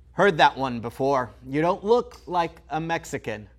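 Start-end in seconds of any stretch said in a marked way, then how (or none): 1.5-3.5 sarcastic echo of the remark; mocking repeat. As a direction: repeat it back with scorn. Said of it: "I get it".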